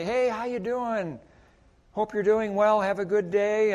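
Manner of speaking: high, bright-voiced friendly hello; lightly voiced cheerful clerk; cheery greeting. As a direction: greet a customer warmly in passing. Greeting demo at store.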